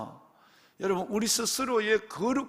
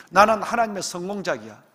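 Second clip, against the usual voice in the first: louder, climbing to the top; proud declaration; 4 semitones higher, 8 dB louder than usual. Shown as a demonstration. Preacher leading the flock to declare their worth, ringing loud. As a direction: proclaim it like a triumph. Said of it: "building declaration".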